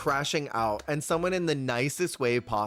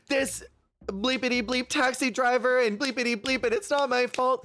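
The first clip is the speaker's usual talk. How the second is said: much higher mock screaming rant, barely louder; 11 semitones higher than usual. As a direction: squeal a hammed-up tantrum. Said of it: "she's screaming so loud".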